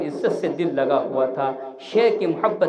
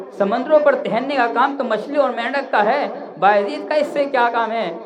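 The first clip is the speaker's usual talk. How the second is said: laughing scoff; 6 semitones higher, 3 dB louder than usual. Retold or imitated. Saint scoffs at walking on sea.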